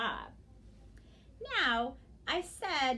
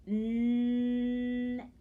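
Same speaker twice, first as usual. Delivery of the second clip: "Nest" very slow and louder; stretched out; 5 dB louder than usual. Shown as a demonstration. Teacher stretches it on fingers, "Nest" very drawn out. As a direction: hold n, e and s of "Nest", then tap the t. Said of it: "we'll stretch out the word".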